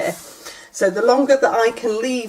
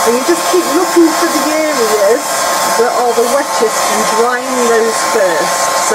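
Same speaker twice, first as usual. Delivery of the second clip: raised voice over a noisy hairdryer; over hair dryer. Real, not acted. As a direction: speak up over the blowing dryer. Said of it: "Live means you get to hear all of this".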